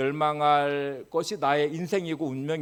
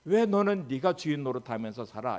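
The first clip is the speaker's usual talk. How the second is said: God rebuking; 4 semitones higher, 4 dB louder than usual. Retold or imitated. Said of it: "이렇게 이제 책망하실 거예요".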